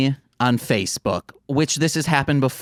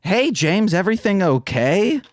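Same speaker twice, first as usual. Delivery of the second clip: caring check-in; 6 semitones higher than usual. Retold or imitated. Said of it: "instead of saying, like".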